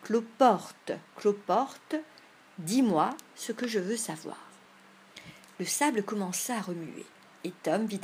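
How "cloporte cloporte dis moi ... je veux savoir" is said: loud, insistent summons to a bug; calling out a charm. Acted. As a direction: call it out like a magic spell.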